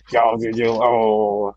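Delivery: lightly voiced Dalek, low muttered grumble; grumbling Dalek. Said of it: "the Dalek just grumbles to himself".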